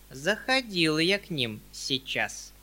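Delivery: slow, secretive hushed-tone confiding; slow mysterious hint. Acted. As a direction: let it hang with mystery, slowly. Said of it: "таинственно проговорил Ежевикин".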